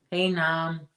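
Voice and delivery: calling "Nam" for Norm, Boston style; put-on Boston vowel in "Nam"; attempted Boston accent. Shown as a demonstration. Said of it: "Am I saying that right?".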